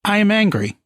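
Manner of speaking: mock angry. Guest says the phrase on request in mock anger. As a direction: declare it like a half-hearted tantrum. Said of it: "just say the words, "I am angry".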